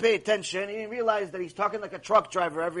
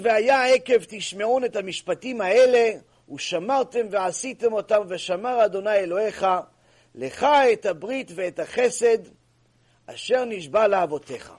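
rapid, louder chanted recitation; fast verse recitation; 6 dB louder, much faster than usual. Real, not acted. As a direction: rattle off the Hebrew verse.

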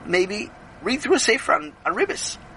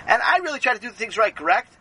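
eager Sammy; 5 semitones higher than usual. Acted. Sammy pleading his case.

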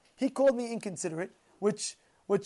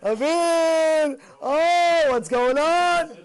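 mock startled cry; 5 semitones higher, 6 dB louder, much slower than usual. Retold startled exclamation.

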